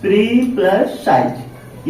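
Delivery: teacher slowly breaking "प्री साइज" into its parts; slow breakdown. Shown as a demonstration. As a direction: slowly split "प्री" and "साइज" with "plus" between. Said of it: "अब प्री साइज को भी याद कर सकते हैं".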